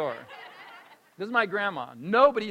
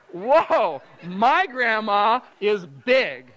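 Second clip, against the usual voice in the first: put-on little kid's wonder; 3 semitones higher, 8 dB louder, much slower than usual. Little kid's startled thought.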